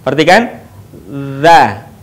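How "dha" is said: 'dha' with tongue tip at upper teeth, voiced, no air escaping; dha without air. Shown as a demonstration. Teacher showing the letter, 'dha' without airflow. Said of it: "tanpa diiringi dengan mengalirnya udara".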